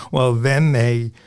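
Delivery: trying to carry on while amused; real laugh leading into the words. Real, not acted. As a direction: talk through a real chuckle. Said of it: "I'm laughing and I shouldn't".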